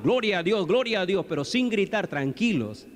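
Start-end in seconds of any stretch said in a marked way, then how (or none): 0.0-1.2 firm, higher praise without yelling; oración algo fuerte. Shown as a demonstration. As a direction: pray out fairly strongly, controlled. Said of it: "oramos un poco fuerte". (oración fuerte pero sin gritar)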